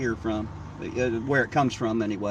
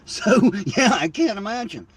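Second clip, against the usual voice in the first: laughing; 7 semitones higher than usual. Real, not acted. Joking about adults who never grew up, high laughing voice. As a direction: let the laugh carry into the words.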